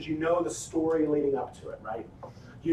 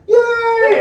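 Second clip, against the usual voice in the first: long, high, loud "yay"; celebrating at the top of the voice; jubilant cheer; 10 dB louder than usual. Retold or imitated. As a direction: let out a full victory whoop. Acts out celebrating the win.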